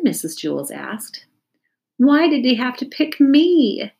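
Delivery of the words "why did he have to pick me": moaned. A narrator's reading. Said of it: "Stephen moaned".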